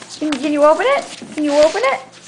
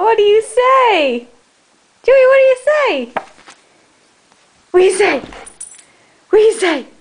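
egging the dog on; coaxing; 5 semitones higher, much faster than usual. Real, not acted.

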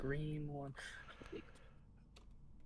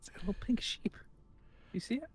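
hushed whisper about a find; 6 semitones higher, 10 dB quieter, faster than usual. Real, not acted. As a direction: whisper as if not to scare it. Spots rare sheep.

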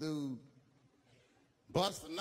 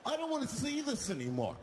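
disgusted yell; 4 semitones lower than usual. Retold or imitated. Passenger yelling at the flasher on the bus, disgusted shout.

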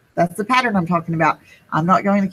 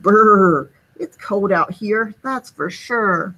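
shivering snowman. Acted. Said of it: "Sneezy the snowman shivered".

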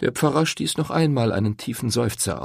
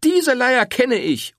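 higher, louder, slow interruption; exasperated interruption; cutting him off; 6 dB louder, slower than usual. A narrator's reading. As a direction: snap in over him. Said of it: "unterbrach Rosetta ihn".

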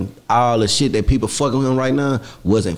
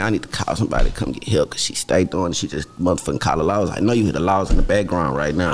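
low, subdued heartbroken rant; a lightly acted sad breakup rant, voice lower; acted heartbreak; 4 semitones lower than usual. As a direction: play it like your girl just left you. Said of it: "you gotta act like, you just lost your girl".

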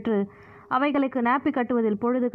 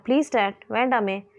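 pleading. Acted. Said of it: "என்றாள் அவள் கெஞ்சும் குரலில்".

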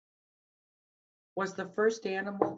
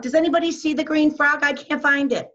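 mock puzzled; 12 semitones higher, 6 dB louder than usual. Pretending to search for frog.

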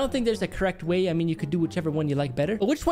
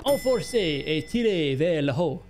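slow French read-out; 3 semitones lower, slower than usual. Shown as a demonstration. Vlogger showing French from school, reading slowly in French. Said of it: "I know my French still".

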